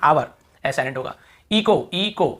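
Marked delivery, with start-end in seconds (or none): 1.5-2.4 "इको" with CH said as k; correct pronunciation. Shown as a demonstration. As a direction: say "इको" as ee-ko, drawing out each part. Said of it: "इको ही पढ़ेंगे".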